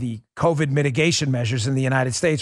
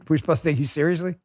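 laughing; 3 semitones higher, faster than usual. Real, not acted.

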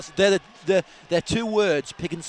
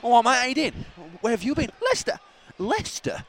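imitating a mate's put-on Cockney, pitched up; jokey Cockney impression; mock Cockney; 4 semitones higher than usual. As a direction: send up a fake Cockney accent. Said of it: "he came back talking like a Cockney".

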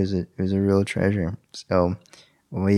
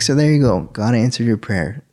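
triumphant wife; 3 semitones higher, 3 dB louder than usual. Retold or imitated. Wife telling husband God answered him, triumphant. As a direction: announce it like a punchline.

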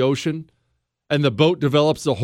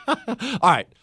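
laughing through it; 5 semitones higher than usual. Real, not acted. Laughing, recovering from story.

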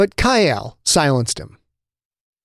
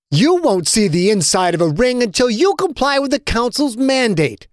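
higher, smug and gloating; barely hidden smile; 9 semitones higher than usual. Acted. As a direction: threaten him while fighting back a grin. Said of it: "unable to completely hide his smile".

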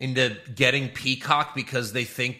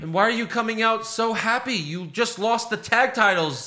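incredulous mock scolding; 9 semitones higher than usual. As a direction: scoff at them in disbelief. Mocking wrestler's happy entrance.

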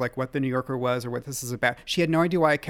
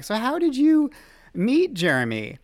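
flustered question; 11 semitones higher, 6 dB louder than usual. Retold or imitated. Quoting himself asking McConaughey.

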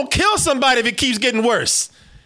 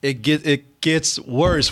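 drawn-out doom; 5 semitones lower, much slower than usual. Pretend.

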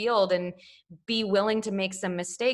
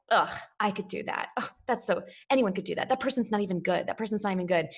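snide scoffing; 2 semitones lower, 3 dB quieter, faster than usual. Retold or imitated. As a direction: sneer it like a bored critic in the row behind. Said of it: "they were like".

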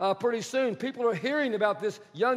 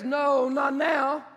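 emphatic refusal; 4 semitones higher, 3 dB louder, much slower than usual. Acted. Echoing God's refusal.

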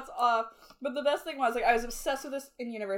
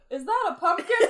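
high squeaky quote; 8 semitones higher, 8 dB louder than usual. Retold or imitated. Quoting the Vine line.

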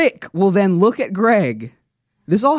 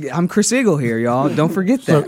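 Chris Eagle; 4 semitones lower than usual. Retold or imitated. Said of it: "That was my Eagle impression".

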